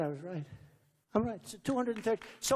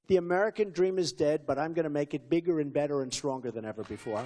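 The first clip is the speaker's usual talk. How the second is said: quoting his speech line; 4 semitones lower than usual. Retold or imitated. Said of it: "an expression I use a lot in speeches".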